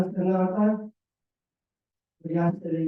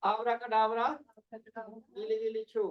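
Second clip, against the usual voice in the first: put-on kids party magician; 2 semitones higher, 3 dB quieter than usual. Shown as a demonstration. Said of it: "बोलेंगे".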